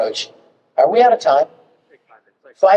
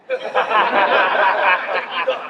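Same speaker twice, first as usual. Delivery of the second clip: higher-pitched burst of laughter; 5 semitones higher than usual. Retold or imitated. Voice actor hearing he needn't say Kakarot, relieved laugh. Reacting to the retold good news.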